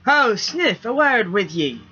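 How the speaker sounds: high, loud call up into the rigging; hollered call. A narrator's reading. Grim hollering up the mast to Sniff, loud. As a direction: holler up to the sailor aloft. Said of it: "Grim hollered into his rig".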